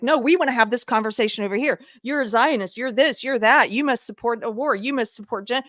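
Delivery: mock accusers. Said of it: "you immediately get pulled into".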